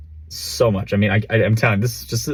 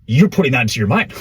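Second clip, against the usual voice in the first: excited, sing-song mock of a guru; quick, higher-pitched playful impression; lightly imitating mentor; 3 semitones higher, faster than usual. Imitating what Eric would probably say to him, playful mock lecture. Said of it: "He's probably going, he's going".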